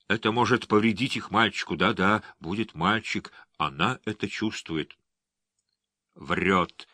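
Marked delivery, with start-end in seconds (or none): 6.1-6.9 flat robotic monotone. A narrator's reading. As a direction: speak like a machine, no feeling. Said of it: "провещал голосом робота".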